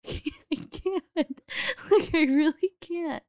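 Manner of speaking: high retold protest broken by laughter; laughing plea. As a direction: imitate helplessness while cracking up. Laughing through retold helpless plea.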